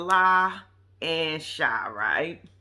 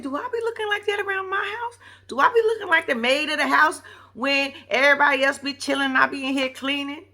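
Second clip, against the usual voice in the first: high-pitched mock indignation; indignant questioning; 5 semitones higher, 3 dB louder than usual. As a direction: demand it in a high, offended voice. Acted indignant questions to viewers.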